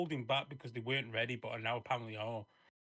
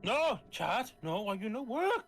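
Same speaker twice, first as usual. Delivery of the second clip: mock pleading; 8 semitones higher, 3 dB louder, slower than usual. Pleading with broken chat.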